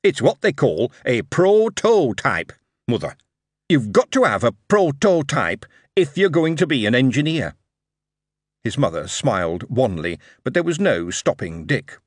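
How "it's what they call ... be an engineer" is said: grin through the explanation; grinning lad. Acted. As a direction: son explaining his prototype to his mother. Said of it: "He grinned hugely and said".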